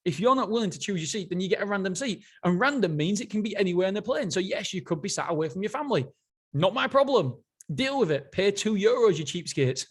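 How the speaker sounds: a hint of a dismissive CEO talking down; mocking the airline boss. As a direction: tease the customers like a tight-fisted tycoon would. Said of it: "That's what he said in his book".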